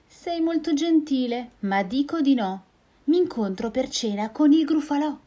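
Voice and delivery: high little mouse, starting in a whisper; a clever mouse turning down a sly invite. Acted. Mouse declining the snake's invitation, high and bright.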